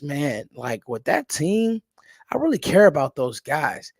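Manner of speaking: laid-back coach voice, a touch mocking; easygoing coach talking up his players. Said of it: "you could say that in your coach voice".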